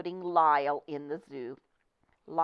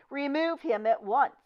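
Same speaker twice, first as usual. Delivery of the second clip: higher, sharp angry command; angry order; 8 semitones higher, 4 dB louder than usual. Acted. Manager angrily ordering the crocodile removed. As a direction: order it out in rage. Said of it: "purple with rage".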